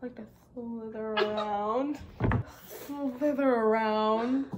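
slither through the words, stretching them out; playing a snake. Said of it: "Taylor, as a snack".

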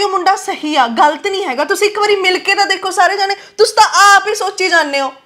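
high, upset pleading; tearful protest. Acted. Girl urging the family to meet the boy she loves, tearful protest. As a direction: plead through rising tears.

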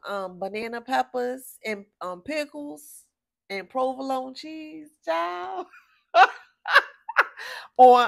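ordinary talk, nothing marked

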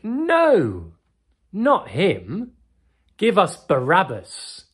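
loud, high crowd shout. Retold or imitated. Storyteller voicing the crowd's shouted demand to Pilate, loud. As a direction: yell it back as the angry mob. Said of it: "And they shouted back".

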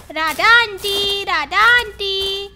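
slow, loud call at the door; a child calling for auntie, loud and drawn out. Acted. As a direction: stretch the name out to be heard inside. Girl calls neighbour at door.

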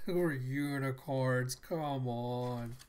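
real laughing incredulity; laughing protest at the absurd; amused disbelief. Real, not acted. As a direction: react through a laugh. Reader reacts, laughing at twist.

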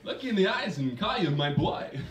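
lightly voiced Walken, suggestive hotline chat; a hint of Walken teasing a caller; Christopher Walken impression. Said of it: "my impersonation of Christopher Walken had he been working for a sexual hotline".

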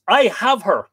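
high, loud pantomime call; loud cry. Acted. Reapers calling out at the harvest, loud cry. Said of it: "cry thrice with a loud voice".

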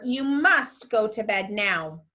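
firm order stressing "must"; direct command. Shown as a demonstration. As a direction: lay down an order, leaning on "must". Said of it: "had to be a direct command".

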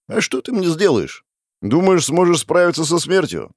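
cocky villain's taunt. A narrator's reading. Stranger taunts the narrator before leaving.

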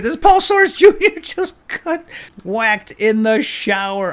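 high, slow laughing words. Real, not acted. Player laughing as an inmate is beaten, giggling. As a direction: laugh while telling it.

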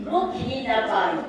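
measured rhyming verse, paused between phrases; poem recitation. Acted. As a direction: recite your verse to the group, lifting each line. Recites own rhyming trip poem.

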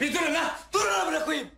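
exasperated shout to stop; urgent shouting. Acted. Breaking up two fighting crewmates, urgent shouting. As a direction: shout them apart.

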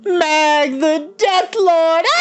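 drawn-out, rising villain proclamation; high, slow gloating villain; triumphant proclamation. Acted. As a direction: crown yourself Death Lord, slowly.

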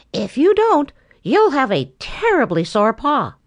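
a hint of a bossy bird explaining; Sammy Jay voice. A narrator's reading. Sammy Jay pointing out the quill to Boxer.

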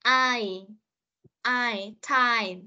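I gliding from a to i, then time; diphthong demo. Shown as a demonstration. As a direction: model the ai in I and time. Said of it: "từ âm A sang âm Y".

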